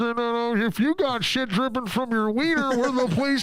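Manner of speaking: a sunny recorded-ad voice, pitched well up; a cheesy hold recording selling the clinic; clinic hold message. Retold or imitated. Clinic hold recording cheerfully greeting callers, a mock ad voice. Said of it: "the fucking waiting music from the fucking clinic".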